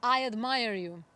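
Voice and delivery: loud call of praise. Retold or imitated. Father calling praise to the mountain, loud. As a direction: call it out warmly across the valley. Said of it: "Father yelled".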